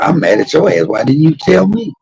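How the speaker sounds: retold indignant demand, rising high; indignant confrontation. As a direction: act out demanding an explanation, pitch climbing. Retold confronting girlfriend for hiding it.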